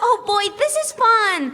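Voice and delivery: loud, delighted squeal of fun; bursting with glee over the game; overjoyed little girl playing; thrilled child.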